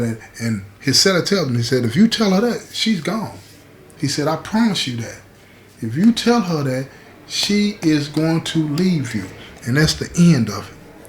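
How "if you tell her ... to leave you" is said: higher-pitched insistent warning, slowing at the end; emphatic warning. Retold or imitated. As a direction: imitate a cellmate spelling out a warning. Cellmate warns him, as retold.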